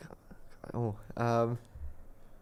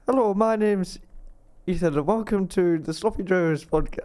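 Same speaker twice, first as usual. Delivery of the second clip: halting, faint attempt at Irish accent; 3 semitones higher than usual. Shown as a demonstration. Guest introducing the podcast on request, weak Irish accent. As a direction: try an Irish accent, barely changing your voice. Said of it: "Irish accent".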